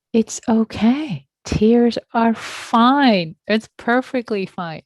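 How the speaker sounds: slow and soothing; gently slow down to comfort her; reassuring. Real, not acted. Teacher reassuring a tearful student.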